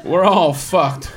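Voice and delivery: high, loud ranting stranger; high hammed-up shouting rant; mock rant. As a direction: yell it like a street weirdo. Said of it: "he goes".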